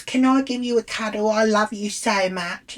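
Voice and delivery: high-pitched, eager imitation of an adoring fan; gushing fan. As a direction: plead adoringly, pitched well up. Acted fan begging a cuddle.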